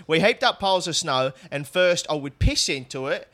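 lightly put-on South London woman; reading the artist's quote in a light South London voice; South London accent. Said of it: "you do the voice for her".

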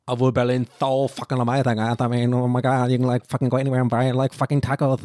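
fast English gush; hyped hipster. Retold or imitated. Mocking hyped Berliners raving about tacos. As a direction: gush like a trend-chasing hipster.

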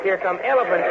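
ordinary delivery

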